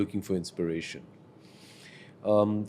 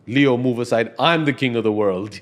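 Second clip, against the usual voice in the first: mock swagger; 6 dB louder than usual. Mimics a star's boastful attitude.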